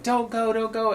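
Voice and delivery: high, mock begging crowd; mock pleading. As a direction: imitate them whining for her to stay. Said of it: "And everybody's like".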